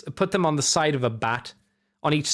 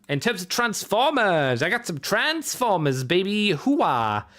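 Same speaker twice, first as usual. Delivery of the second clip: higher, playful hyped-up announcement; playful hype; 4 semitones higher than usual. Pretend. Reviewer moving on to his new Transformers, playfully hyped. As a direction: hype up the next segment with a mock cheer. Hyping the next toy segment.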